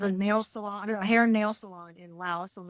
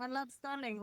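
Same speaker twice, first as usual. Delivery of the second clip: imitated Asian mom, higher and much softer; heavy Asian accent; 4 semitones higher, 13 dB quieter than usual. Mom ignoring her daughter for Sterling, soft Asian accent. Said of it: "that was a really heavy Asian accent".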